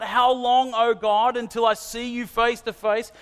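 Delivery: cry of lament. Retold or imitated. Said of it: "Have you cried out".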